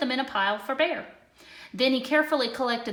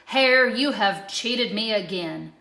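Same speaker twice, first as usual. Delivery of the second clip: slow, louder angry bear; scowling Bear; 7 dB louder than usual. A narrator's reading. Bear scolds Hare for cheating again, slow anger. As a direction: drag out the accusation. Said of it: "looked at his pile and scowled".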